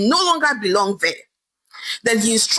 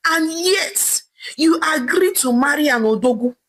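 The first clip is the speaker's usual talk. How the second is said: raised, mildly angry scolding; husband scolding his barren wife, mildly angry; 3 semitones higher than usual. Acted. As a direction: berate your wife, a touch heated. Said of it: "screamed angrily at her".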